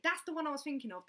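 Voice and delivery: ordinary talk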